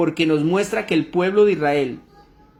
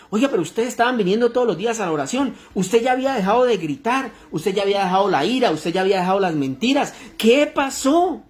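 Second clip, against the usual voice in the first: puzzled reproach; 4 semitones higher than usual. Acted. Preacher voicing someone confronting backsliders who were coming to prayer, puzzled reproach. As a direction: reproach them rapidly, then stretch the question up high.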